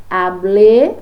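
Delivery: hablé said loud with a rising tune; a teacher pointing students to hablé; emphasized hablé. Shown as a demonstration. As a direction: lean hard on hablé so it stands out. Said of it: "a ação de falar, eu utilizo hablar".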